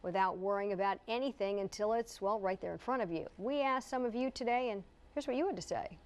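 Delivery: polished anchor lead-in; news intro read. Acted. Anchor introducing a body-scan segment to viewers, news intro read.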